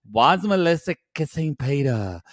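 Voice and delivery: badly faked French accent, half-hearted; lightly put-on accent, barely French; attempted French accent. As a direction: make a weak stab at a French accent. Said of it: "Is that your French accent?".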